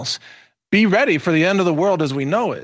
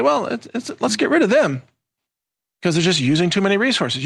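a hint of a higher-pitched AI character; lightly voiced AI; 4 semitones higher than usual. AI deciding about jobless humans, lightly voiced in higher pitch. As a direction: lightly play the reasoning machine, pitched up. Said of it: "A I will, of course, come along and say".

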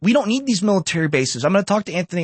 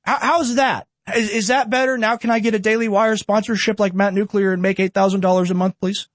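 a lightly voiced higher pundit voice; slightly higher, put-on TV host tone, half-hearted; mild mock cable news host; Jesse Waters impression; 3 semitones higher than usual. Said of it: "let me do my Jesse Waters impression".

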